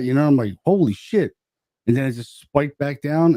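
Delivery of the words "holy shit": higher-pitched re-enacted shock; mock amazement; retold astonishment. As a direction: act out being stunned, without shouting. Retelling shock at the meter spike.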